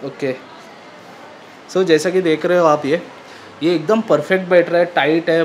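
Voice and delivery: speaking through balaclava; muffled through fabric. Real, not acted. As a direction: cloth over mouth. Seen 4: Balaclava fabric covers mouth and nose throughout the labelled words.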